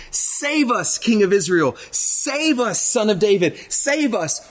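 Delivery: lightly voiced crowd crying out, high on save; a mild plea of save us; voicing the crowd begging the king to save them; pleading crowd. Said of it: "So they were saying".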